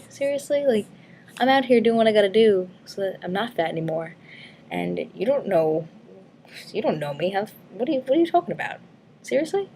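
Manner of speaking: high, exasperated comeback; indignant retort. Retold or imitated. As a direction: fire back, offended and incredulous. Retort to kids yelling insults.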